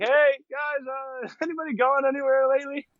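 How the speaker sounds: high, fast, eager asking with a laugh; chirpy high-pitched mock begging; hopeful plea. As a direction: sound sweetly desperate for a ride. Begging boats for a ride.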